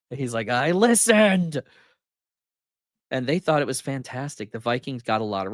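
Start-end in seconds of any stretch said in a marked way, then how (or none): 0.5-1.6 slow deliberate. Retold or imitated. Slow reply, sounding out words.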